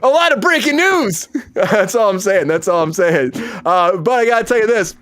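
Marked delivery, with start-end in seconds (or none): 0.0-1.3 news anchor voice. Pretend. Mock news announcement.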